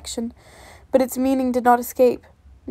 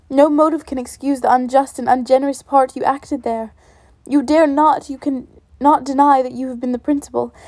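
louder, heated accusation; indignant reproach; 4 dB louder than usual. Acted. Elizabeth accusing Darcy of parting her sister, louder and indignant. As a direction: lay the blame on him hard.

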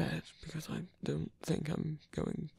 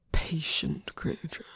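teasing whisper. Acted.

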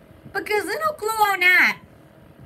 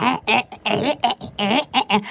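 imitated "eh" noises; 8 semitones lower, faster than usual. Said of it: "I was like".

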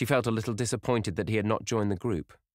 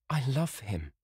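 said simply; 7 semitones higher than usual. A narrator's reading. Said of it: "she said simply".

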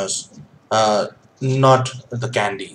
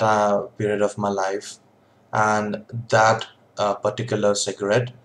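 speaking around pipe stem; talking with pipe in mouth. Real, not acted. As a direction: lips gripping pipe. Seen 2: Holds pipe beside face, then stem at lips from 3.4s.

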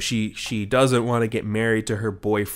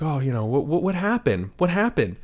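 higher-pitched, gently questioning retold dad; understanding father; 4 semitones higher than usual. Father asking his crying boy what happened, mildly imitated understanding. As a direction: lightly act a father asking, pitch climbing. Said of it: "he's perfectly understanding".

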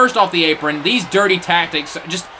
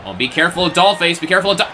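usual speaking voice

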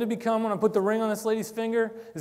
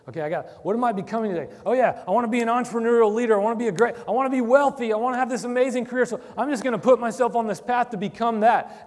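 louder, faster, higher, hammed-up ambitious self; mock go-getter; 4 semitones higher, 4 dB louder, faster than usual. Pastor mocking his ambitious self, eager and brash. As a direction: parody a hungry career climber. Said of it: "hyper-American obsession with making something of my future".

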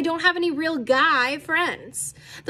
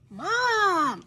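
higher, drawn-out chiding; embarrassed protest; 5 semitones higher than usual. Acted. Embarrassed girl chides her mother, protesting. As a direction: protest at a parent, mortified. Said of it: "I whispered, embarrassed".

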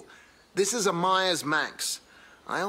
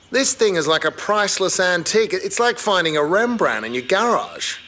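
louder, gushing over a treasure; thrilled; 4 semitones higher, 5 dB louder than usual. Real, not acted. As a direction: rave about the find. Thrilled at a rare antique car.

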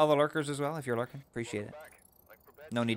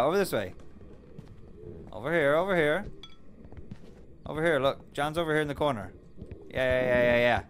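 calling from far away; 4 semitones higher than usual. Real, not acted. Calling ghost to corner.

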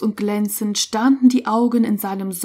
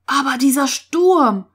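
higher, alarmed exclamation; raised, agitated cry; calling out; 4 semitones higher, 3 dB louder than usual. A narrator's reading. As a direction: exclaim over the storm. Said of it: "rief Ulrich".

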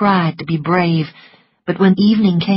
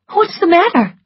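higher, louder demanding question; sharp question; 12 semitones higher, 5 dB louder than usual. A narrator's reading. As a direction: snap the question at her. Scarlet questions Prissy.

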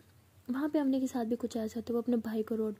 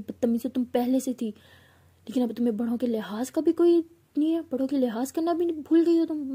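scolding shout; 2 semitones higher, 5 dB louder than usual. Retold or imitated. Mother scolding her rude daughter after a slap, loudly. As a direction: tell her off loudly for her cheek. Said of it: "मतलब बहुत चिल्लाती हैं".

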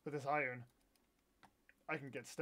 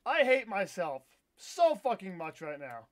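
mad; 6 dB louder than usual. Real, not acted. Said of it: "I'm so mad right now".

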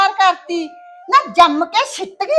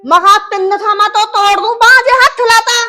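louder, fierce warning to her husband; angry threat; 2 semitones higher, 6 dB louder than usual. Acted. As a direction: bark the threat. Wife threatens husband in quarrel. (ਗੁੱਸੇ ਵਿੱਚ ਉੱਚੀ ਧਮਕੀ)

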